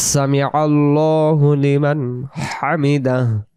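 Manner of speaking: slow, sustained Arabic recitation; measured prayer phrase, half chanted. Shown as a demonstration. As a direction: recite it with long, careful vowels. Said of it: "দাঁড়িয়ে বলি".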